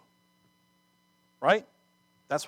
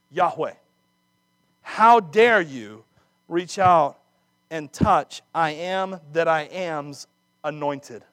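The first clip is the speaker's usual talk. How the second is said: slow, much louder outraged challenge; thundering rebuke; 6 dB louder, slower than usual. Acted. Preacher paraphrasing David's fury at the Amalekite, slow and loud. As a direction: hammer each word of the rebuke. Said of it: "That's my paraphrase".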